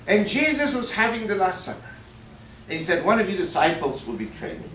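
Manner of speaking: put-on lightly Irish-accented sermon voice; Irish priest preaching. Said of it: "So Father O'Malley gets up".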